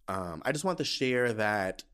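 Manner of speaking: cracking voice, slow. Real, not acted. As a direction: let the voice crack as you speak. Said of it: "why is my voice cracking?".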